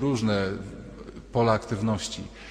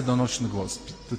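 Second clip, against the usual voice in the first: normal talking voice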